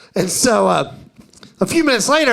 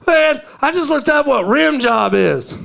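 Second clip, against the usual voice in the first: put-on amused old man; 6 semitones higher than usual. Old man laughing at phone.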